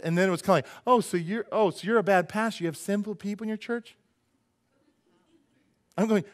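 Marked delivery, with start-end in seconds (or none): 0.9-4.0 higher, incredulous imitated accusation; mock accusation. Churchgoer accusing her pastor, mock disbelief. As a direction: mimic a scandalized churchgoer.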